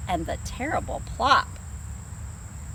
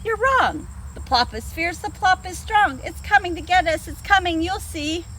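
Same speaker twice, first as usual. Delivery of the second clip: warning animals; 5 semitones higher than usual. Acted. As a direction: insist in alarm. Animals warn bear.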